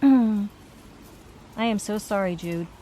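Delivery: slow, halting relayed apology; a touch choked, relaying his sorrow. Retold or imitated. Relaying a spirit's apology to Jude, choked up. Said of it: "He's choked up".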